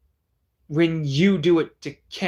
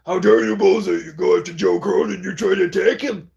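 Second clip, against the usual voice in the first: mock outrage; 3 semitones higher than usual. Mocking Ballsy defending Joe.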